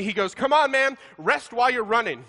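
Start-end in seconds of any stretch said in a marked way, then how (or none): 0.3-1.0 mock coach yell. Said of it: "he yells over at me". 1.2-2.2 upbeat coach shouting across the track; coach's encouragement. Retold or imitated. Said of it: "he yells over at me".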